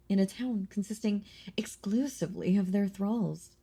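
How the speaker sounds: menacing whisper. Acted. Vampire reminding the hunter of her thralls, whisper.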